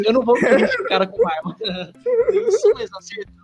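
high laughing squeal. Real, not acted. Laughing while retelling. (rindo agudo da situação)

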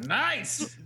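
high, excited fan cheer; mock cheer. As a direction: cheer like a sports nut.

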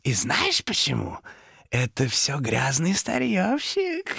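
high, rasping creature stage whisper; loud demon whisper. A narrator's reading. Demon blames the junk dealer, loud insistent whisper. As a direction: incite him slowly, building in force. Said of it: "Демон перешёл на громкий шёпот".

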